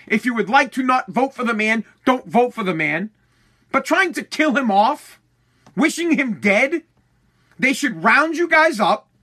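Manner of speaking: real anger at people wishing the president dead; angry rant. Real, not acted. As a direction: scold them with rising anger.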